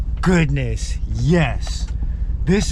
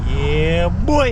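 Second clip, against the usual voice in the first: higher, louder boast; hype shout; 6 semitones higher, 4 dB louder than usual. Real, not acted. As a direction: cheer it out. Closing hype.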